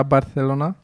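Barcelona with a Spanish 'th' for the c; Castilian lisped c. Shown as a demonstration. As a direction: say the c in Barcelona as 'th', tongue between teeth. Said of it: "Un S de la, un ca la Barcelona". (Barcelona cu c sâsâit, ca „th” spaniol)

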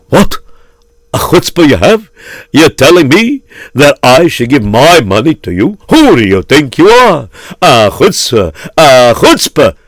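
mildly hammed-up outrage; indignant miser. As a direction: act the affronted miser scolding a beggar. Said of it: "his routine of saying".

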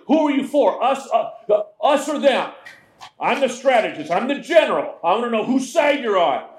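demanding Joshua. Acted. Joshua demanding answers from captain.

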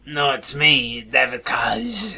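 a light mock French accent, phone caller. Prank caller on a podcast, in a light mock French accent. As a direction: play a French caller faking a radio call-in, light French accent. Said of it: "it's a French accent".

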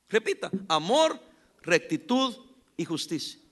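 brisk lead-in to repeat; call and response. Shown as a demonstration. Preacher prompting the congregation to repeat again. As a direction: prompt them again quickly.

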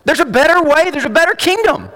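lightly voiced Jesus rallying the poor crowd; a touch of a preacher quoting Jesus with rising urgency; encouraging the crowd under the heel of Rome; voicing Jesus. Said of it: "Jesus says".

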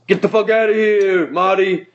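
a hint of a blustering bully; lightly voiced Biff yelling at Marty; mild mock bully snarl. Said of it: "it's fucking exactly Donald Trump".

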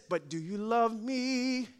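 slow, soft, searching; tender question. Retold or imitated. Father asks his wife again, slowly and tenderly. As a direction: ask it gently, slowly. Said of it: "And he says".

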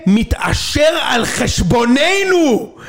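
high, shouted exposé outrage; hammed-up reporter, starting slow and drawn out; mock economic TV report. Parodying TV reports on who profits, mock-outraged reporter. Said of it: "תמיד יש כתבה כלכלית".

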